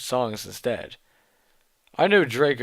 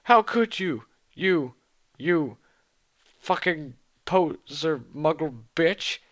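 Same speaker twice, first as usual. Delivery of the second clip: pitched-up mock yell that slows at the end; accusing shout; 5 semitones higher, slower than usual. Draco rants at Ebony, a mock shout slowing down. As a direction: hurl it as a hammed-up accusation. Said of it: "he shouted".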